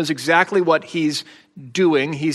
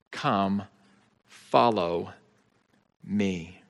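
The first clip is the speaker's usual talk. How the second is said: loving demand; 4 semitones lower than usual. Acted. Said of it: "an apparently loving demand".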